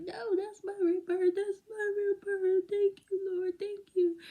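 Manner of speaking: high, loud, overjoyed tearful cry. Retold or imitated. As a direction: reenact bursting into grateful tears. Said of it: "I started crying".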